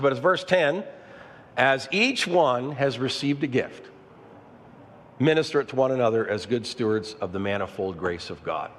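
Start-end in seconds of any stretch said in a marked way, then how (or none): 1.6-8.7 each phrase read slowly, weight on each; slow emphatic reading. Shown as a demonstration. Pastor reading the verse slowly to the congregation, emphatic. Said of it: "his scripture's making it plain".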